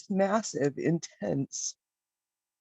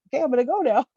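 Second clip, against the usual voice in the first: little dragon voice, higher and louder; cute little dragon, higher; 10 semitones higher, 5 dB louder, much faster than usual. Acted. The cute little fiery dragon says goodbye again, higher and louder. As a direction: play the tiny dragon chirping its goodbye, higher. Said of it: "climbed out and was like".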